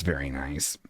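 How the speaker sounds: words pushed out through a burp; low, quiet burp through the words; talking while burping. Real, not acted. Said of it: "I burped".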